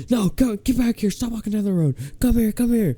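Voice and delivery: very high, sing-song mock hollering; drunk mom. Drunk mom ordering the kid back, high mock holler. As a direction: imitate a tipsy mother calling someone back. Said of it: "her mom was like".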